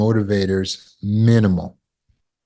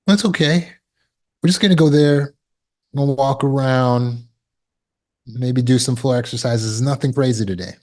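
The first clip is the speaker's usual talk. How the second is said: gentle negotiating; 2 semitones higher than usual. Acted. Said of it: "we're negotiating".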